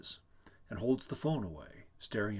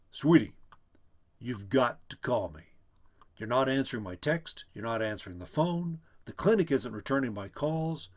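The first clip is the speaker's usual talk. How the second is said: urgent, louder pleading into the phone; agitated; 2 semitones higher, 7 dB louder than usual. Acted. Worried husband leaving his wife a voicemail, agitated and loud. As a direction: press her anxiously to call back. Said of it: "agitated and pacing".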